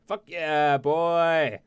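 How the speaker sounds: triumphant whoop, very loud; excited shout. Real, not acted. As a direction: yell it like you just won. Cheering after a successful escape.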